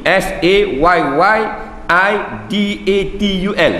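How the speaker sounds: Sayyidatul spelled letter by letter, S A Y Y I D A T U L; spelling Sayyidatul aloud in Rumi letters. Shown as a demonstration. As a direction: dictate the letters one at a time. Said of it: "jauh Rumi".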